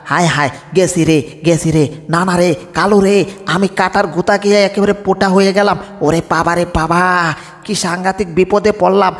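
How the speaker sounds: comic pained wail. Acted. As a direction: howl as if a thorn stuck you. Lion stepped on thorns.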